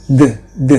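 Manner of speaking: voiced th sound, loud; voiced th drilled. Shown as a demonstration. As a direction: buzz the tongue between the teeth on "D". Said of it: "dibaca D".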